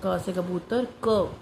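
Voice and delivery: slow, teaching sing-song; slow letter with picture word; slow picture recitation. Shown as a demonstration. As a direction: say it slowly so the child can copy. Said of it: "बच्चे को picture तो भी करानी है".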